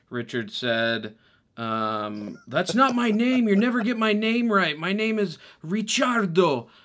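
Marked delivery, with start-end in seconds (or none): 2.4-6.6 high-pitched yelling at full volume. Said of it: "Ricciardo's yelling about nobody in town knowing".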